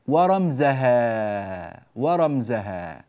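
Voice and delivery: slow, drawn-out recitation; verse recitation. Shown as a demonstration. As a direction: stretch the long vowels like a verse. Reciting next verse slowly.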